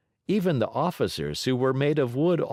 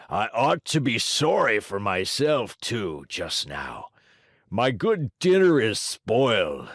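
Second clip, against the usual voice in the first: gruff giant voice. Acted. Giant complains about dinner.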